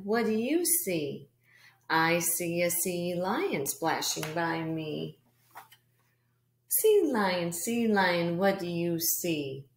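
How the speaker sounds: read-aloud with a strong beat; rhythmic read-aloud. Shown as a demonstration. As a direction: give each line a little beat for the children. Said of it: "read the rest of the book with rhythm".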